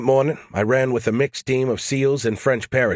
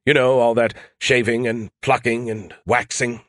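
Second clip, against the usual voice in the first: musing Skippy; 2 semitones higher than usual. Acted. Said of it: "Skippy mused".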